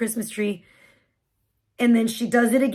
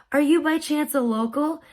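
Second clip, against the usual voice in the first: higher, polite inquiry; calm, nice voice; 4 semitones higher than usual. Retold or imitated. Parking attendant asking stressed mom, calm and nice. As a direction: imitate a kindly attendant asking gently. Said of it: "the calmest, nicest voice".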